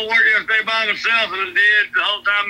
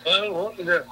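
finger over the mic; 3 semitones lower, 5 dB quieter than usual. Real, not acted. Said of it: "it still kinda sounds funky".

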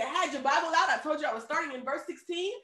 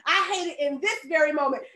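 exasperated; 2 semitones higher, 4 dB louder than usual. Acted. Preacher voices Paul pestered on his way to pray, exasperated. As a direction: draw out each word as if thoroughly fed up. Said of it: "He was exasperated".

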